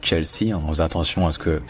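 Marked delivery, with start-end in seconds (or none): 0.0-0.5 "Chelsea" as tchel-si, evenly; approximation française. Shown as a demonstration. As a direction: say "Chelsea" French style with a tch. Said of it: "comme si on disait". (« Chelsea » approché à la française)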